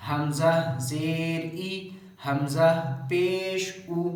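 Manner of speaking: slow "हमज़ा ज़ेर", short "ई", likewise "उ"; model spelling-out. Shown as a demonstration. Teacher showing how hamza is read, slow spelling with short "ई", "उ". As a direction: draw out each name, clip the final "ई" and "उ". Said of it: "इसको ऐसे पढ़ा जाएगा".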